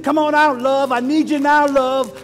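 loud plea to love. Pretend. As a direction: summon love like a friend. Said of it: "you're gonna need to".

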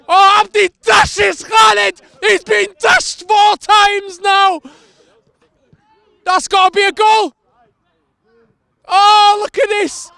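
loud, high, slow drawn-out commentary call; excited commentary. Real, not acted. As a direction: stretch every word as the dribble unfolds. Dribble past defender again.

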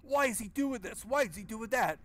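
high, lightly mocked dumb questions; mocking the game hero. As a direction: parrot the hero's pointless questions. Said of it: "this Silent Hill dialogue is on point".

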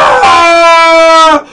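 long drawn-out yell of delight; 대박 터진 환호성; excited shout. Real, not acted. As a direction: roar at the big card pull. Great card pulled in pack.

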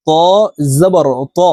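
ত with an emphatic t and rounded back vowel; careful, thick ত, pause before জবর; thick, heavy ত. Shown as a demonstration. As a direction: demonstrate heavy Arabic ত, full in the mouth. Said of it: "তর উচ্চারণ মোটাভাবে".

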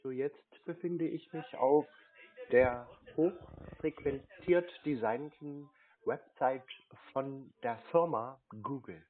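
pompous slow announcement. Pretend. Prankster mocks the scam caller.

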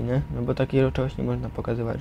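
ordinary delivery

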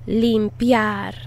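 limpiar said clearly as lim-pee-AR; teacher modelling limpiar; model pronunciation. Shown as a demonstration. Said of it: "Repeat after me".

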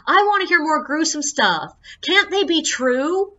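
high, slow, whiny mock pout; pouty exaggerated disappointment; mock disappointed tourist. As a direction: play the let-down thrill-seeker. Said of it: "she was like".

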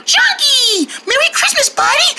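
high excited greeting; excited call. Acted. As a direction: call it out thrilled. Calling out greeting.

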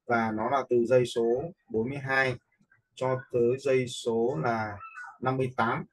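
normal talking voice

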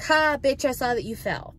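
high, punchy taunt that drops away; catty mock jeer; mocking gloat. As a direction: gloat at a fallen rival. Acting out an imagined gloat.

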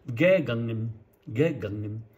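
ゲガンゲン with a strong first ゲ and an almost silent final ゲン; German ゲガンゲン. Shown as a demonstration. Teacher repeating the German reading of ゲガンゲン. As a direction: lean on the opening ゲ of ゲガンゲン, drop the last ゲン. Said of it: "最後のゲンっていうのはほとんど聞こえません".

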